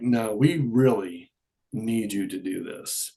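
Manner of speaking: slow, measured retold urging; slow insistence. Angels urging a busy waiter, slowly insistent. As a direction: press the request slowly, word by word.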